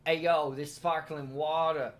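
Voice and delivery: playing a Naples local raving about sparkling water; Italian accent. Friend mocks Italians bragging about sparkling water, hammed-up Italian accent. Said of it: "That's exactly what they sound like".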